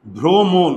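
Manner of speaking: "ভ্রমণ" as bhro-mon, two closed o vowels; both o's sounded. Shown as a demonstration. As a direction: say "ভ্রমণ" firmly with a round o in each syllable. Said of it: "এখানে দুইটা ওকার আছে".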